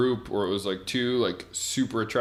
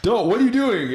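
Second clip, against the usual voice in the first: high-pitched, loud imitated shout; loudspeaker scolding; 12 semitones higher, 8 dB louder than usual. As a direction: call out like a ship's loudspeaker warning. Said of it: "over the loudspeaker".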